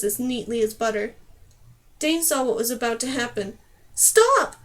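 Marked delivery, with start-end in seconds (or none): 3.9-4.6 much higher, loud shouted stop; shouting to stop the fight; calling out. A narrator's reading. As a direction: call out to both sides at once. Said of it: "she called to attackers and defenders".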